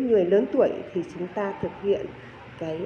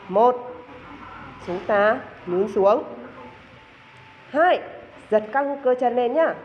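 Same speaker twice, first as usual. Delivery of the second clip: called-out count; 3 semitones higher, slower than usual. Shown as a demonstration. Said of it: "instructor calls exercise beats".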